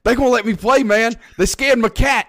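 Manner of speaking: high excited country jock voice; imitating Billy Bob. Host quoting Billy Bob talking to Mox, high giddy voice. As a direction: pitch way up, cheerful and giddy. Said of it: "He's like".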